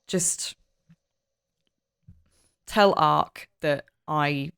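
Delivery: low, halting farewell; a touch of regret, acted in character; subdued apology. In-character goodbye before crawling down.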